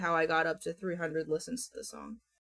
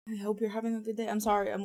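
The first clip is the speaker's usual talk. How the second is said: out of breath; much faster than usual. Real, not acted. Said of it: "out of breath".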